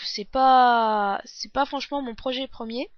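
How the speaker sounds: talking through a sore throat; throat swollen, strained sore voice; swollen tonsils voice. Real, not acted. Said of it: "j'ai mal à la gorge". (voix de gorge enflée et douloureuse)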